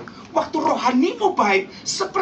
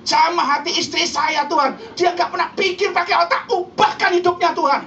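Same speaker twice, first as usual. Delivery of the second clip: raised, mock-pleading husband's prayer; Power Ranger prayer; 5 semitones higher, 4 dB louder than usual. Husband praying to God to change his wife, mock pleading. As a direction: pray higher, in mock complaint about the wife. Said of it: "doa Power Ranger".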